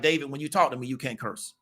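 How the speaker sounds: gently correct, no anger in it; calm, not aggressive. Retold or imitated. Mother calmly telling her grown son not to curse, quiet and low. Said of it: "she didn't say it in an aggressive tone".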